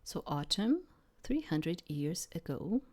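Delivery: measured literary read-aloud; narrating a story line by line; story narration. A narrator's reading. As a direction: read it as a first-person tale, with pauses.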